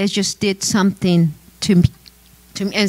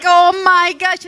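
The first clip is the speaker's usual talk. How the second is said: mock laughing crowd; 9 semitones higher than usual. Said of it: "start laughing like".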